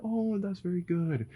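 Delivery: put-on light, high, sweet praise to a calming toddler; mother soothing her daughter after a tantrum, lightly sweet; praising parent. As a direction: coo it like a gentle mom, lightly. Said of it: "I'm like".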